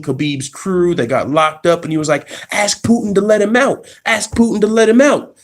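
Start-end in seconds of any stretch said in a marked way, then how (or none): 2.5-5.4 higher mocking taunt; imitating McGregor. Mocking McGregor taunting Khabib about Putin. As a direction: taunt him, repeating it.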